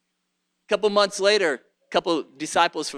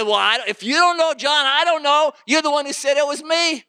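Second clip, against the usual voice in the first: rattled; 8 semitones higher, 4 dB louder than usual. Acted. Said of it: "He's shaking. He said".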